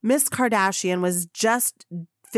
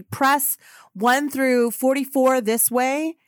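slow, higher announcing call; 5 semitones higher, slower than usual. Retold or imitated. Staff summon press by ticket number, calling out. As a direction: call the group over, drawing it out.

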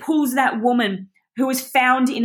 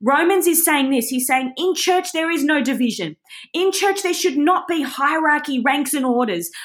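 higher, building preaching fervour; passionate; 4 semitones higher than usual. Real, not acted. Speaker asking leave to preach to TYB, then passionate. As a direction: rise up with conviction toward the end. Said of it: "Can I get a little bit passionate here".

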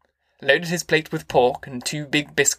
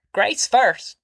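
higher insistent demand; clamouring; 7 semitones higher than usual. A narrator's reading. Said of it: "Grandma clamoured".

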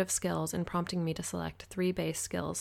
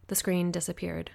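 plain reading voice

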